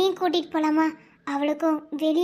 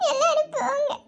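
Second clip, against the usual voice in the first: crying out; 9 semitones higher than usual. Acted. Sister crying, sending everyone away.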